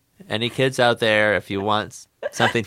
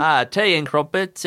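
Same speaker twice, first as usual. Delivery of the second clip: higher, playful British voice; mock British accent; 4 semitones higher than usual.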